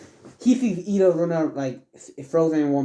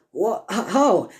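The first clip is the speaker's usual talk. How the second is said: higher, stammered disbelief; baffled; 5 semitones higher, slower than usual. Acted. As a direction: stutter it out in mock shock. Villain baffled by teleporting foe.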